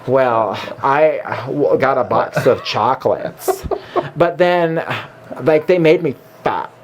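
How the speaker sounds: lightly voiced slow Gump drawl with a valley twist; half-hearted mashup of Forrest Gump and a Valley Girl. Co-host asks for the combo, he does a mild mock Gump voice. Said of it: "combining a Valley Girl with Forrest Gump".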